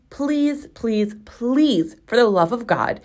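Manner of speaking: drawn-out, exasperated plea; mock pleading. Begging furniture companies to add words, mock pleading. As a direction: beg with comic exasperation.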